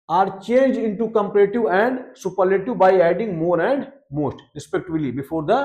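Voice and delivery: slow, deliberate textbook reading; teacher reading a grammar rule to the class; reading rule aloud. Acted. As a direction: dictate the rule word by word. Reads English rule aloud.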